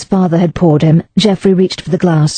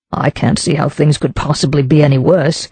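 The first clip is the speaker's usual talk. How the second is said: dully; 3 semitones lower than usual. Acted. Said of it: "said Geoffrey dully".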